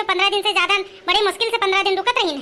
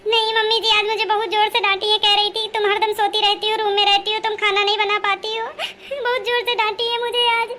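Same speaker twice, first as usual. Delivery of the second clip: acted crying complaint. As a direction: sob it out to the mother-in-law. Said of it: "अच्छा चुप हो जाओ". (रोते-रोते सास से शिकायत)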